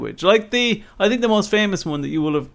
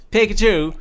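put-on Mallow accent; 5 semitones higher, 3 dB louder than usual. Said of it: "a Pikachu from Mallow that goes".

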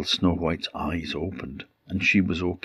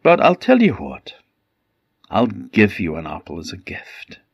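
luring her with a free gift; disguised queen; 2 semitones higher, 4 dB louder than usual. Acted. Disguised queen offers apple.

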